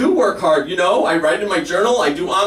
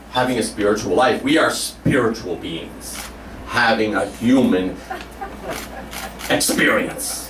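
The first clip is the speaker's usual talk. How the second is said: slow, solemn sermon cadence sinking lower; Oprah preaching; 3 semitones lower, slower than usual. Retold or imitated. Oprah delivering her spiritual slogan, slow and sinking low. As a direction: intone it like a spiritual guru. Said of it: "Oprah says".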